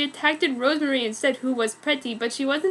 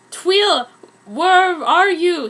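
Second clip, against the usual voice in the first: calling out; 5 semitones higher, 7 dB louder, much slower than usual. A narrator's reading. Someone calling from outside.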